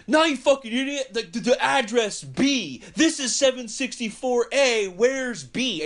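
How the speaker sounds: put-on high, fast irate old man yelling; mock screaming. Old man screaming at the taqueria crowd, high and irate. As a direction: yell at everyone like they're idiots. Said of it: "And he's screaming at".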